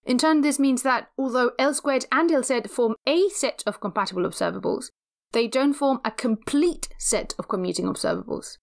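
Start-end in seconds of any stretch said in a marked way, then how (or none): 5.3-8.6 "complete" given clear emphasis; stress on complete. Real, not acted. Lecturer warning that the operators fall short, stress on "complete". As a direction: lean on the word "complete". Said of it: "I emphasize the word complete".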